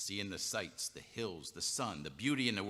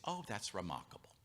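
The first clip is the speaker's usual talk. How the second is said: dry sarcasm; 7 dB quieter than usual. Acted. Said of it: "he was prickly".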